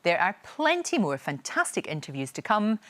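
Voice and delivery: measured, scripted sign-off read; presenter's outro. Acted. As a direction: invite the viewers in, clearly paced.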